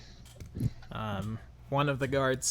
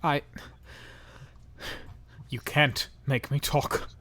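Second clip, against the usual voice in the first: defiant prisoner; 3 semitones higher, 5 dB louder than usual. Acted. Captive NPC defiant to questioning.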